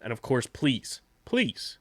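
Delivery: upbeat sponsor read. Acted. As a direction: read it like a radio ad. Host reads sponsor ad.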